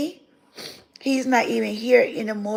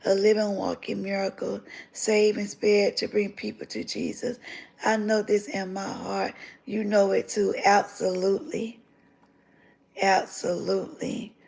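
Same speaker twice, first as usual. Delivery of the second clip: softer, fighting back tears; tearing up; 5 dB quieter than usual. Real, not acted. Thanking God to her viewers, softly tearful. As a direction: let the emotion catch quietly. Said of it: "now I'm tearing up again".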